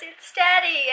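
high-pitched cooing daddy voice; imitated soothing daddy. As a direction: coo it like a father to his baby. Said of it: "And he goes".

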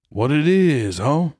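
attempted romantic. Shown as a demonstration. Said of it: "make it romantic".

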